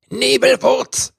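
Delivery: angry elf yelling for Nebelwurz; shouted name. A narrator's reading. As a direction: yell the name across the clearing. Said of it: "schrie er".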